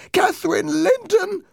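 very high, wailing ghost; crying ghost voice. A narrator's reading. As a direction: wail it like a lost spirit. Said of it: "the voice cried".

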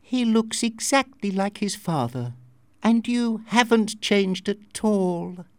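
put-on high French-accented voice, slowing at the end. A narrator's reading. Masked woman recognizing Joss, high French accent. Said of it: "with a French accent".

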